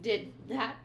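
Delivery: exasperated, pitch jumping up on the last phrase; retold mad. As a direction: quote him incensed, stumbling over the words. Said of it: "gets so mad".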